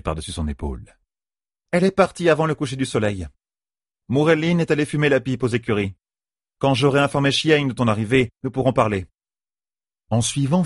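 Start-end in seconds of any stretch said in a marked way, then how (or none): 1.7-9.1 slightly put-on character voice, pitched up; higher-pitched woman's dialogue, lightly acted; lightly voiced Falion. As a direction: lift the pitch a little for her reply.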